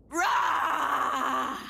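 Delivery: monster roar with feeling. Pretend. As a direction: give the giant monster roar everything. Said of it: "Once more with feeling?".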